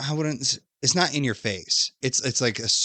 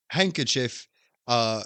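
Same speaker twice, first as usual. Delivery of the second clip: put-on awkward boy voice; 4 semitones higher than usual. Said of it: "Spook's like".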